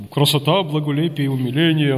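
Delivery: lightly voiced churchman savouring each word; a touch of an old-school deacon's relish; old-school protodeacon. Old protodeacon recruiting a young helper, lightly hammed-up churchman. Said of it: "протодиакон старой школы".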